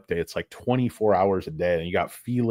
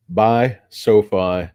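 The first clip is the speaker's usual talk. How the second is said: mock pitch; 6 dB louder, much slower than usual. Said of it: "hammed-up slogan".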